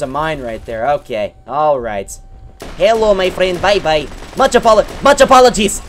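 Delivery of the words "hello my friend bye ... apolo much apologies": louder teasing hello, apologies rising higher; fake-polite send-off, hammed up more; mock polite farewell. Gamer repeating his fake-polite line to a victim, louder.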